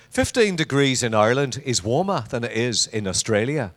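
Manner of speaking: lightly imitated Irish mother-in-law; a hint of an Irish accent. Quoting his mother-in-law on Irish weather, light Irish accent. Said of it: "has to be said with an Irish accent".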